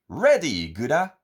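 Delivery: high, gleeful call; excited cry. A narrator's reading. Goody and Gooda diving into the sea, crying out high. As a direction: cry it out as they dive. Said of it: "they cry".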